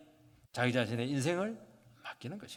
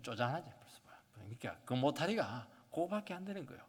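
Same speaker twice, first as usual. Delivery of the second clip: whispered aside; 7 dB quieter than usual. Acted. Sly aside about narrow people.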